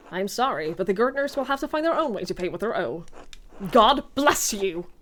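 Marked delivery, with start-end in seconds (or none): 3.7-4.9 "God bless you" slow and louder, each word dragged out mockingly; sarcastic blessing. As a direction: bless him with heavy irony after the refusal. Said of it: "Oh shit, Gerdo refused".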